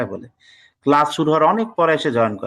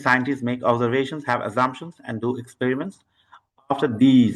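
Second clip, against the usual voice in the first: read-aloud demo; 3 semitones lower, much slower than usual. Shown as a demonstration. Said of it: "তো দেখে নেই".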